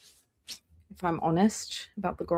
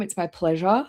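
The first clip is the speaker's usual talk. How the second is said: talking through a yawn; words stretched by a yawn. Real, not acted. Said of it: "Sorry, I'm yawning".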